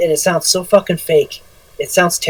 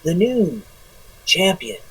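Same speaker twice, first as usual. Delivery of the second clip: softer, drawn-out mock announcer promo; Anchorman promo voice; 2 semitones lower, 6 dB quieter than usual. Mocking wrestlers who cut promos, lightly hammed news-anchor voice. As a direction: ham up a fake wrestling promo. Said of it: "I call it Anchorman voice".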